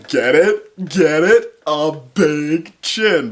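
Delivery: loud, high, drawn-out mock joke delivery; milk the pun, hammed-up and loud; hammy nudging joke. Imitating writers pushing their chin pun, hammy and loud. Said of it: "hear the writers or whoever say".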